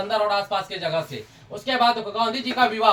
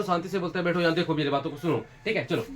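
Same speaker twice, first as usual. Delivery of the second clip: softer, settling the class down; calm and quiet; 5 semitones lower, 6 dB quieter, faster than usual. Real, not acted. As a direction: speak gently so they calm down. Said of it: "चलो, शांति से बोलते हैं". (शांति से, धीमी आवाज़ में)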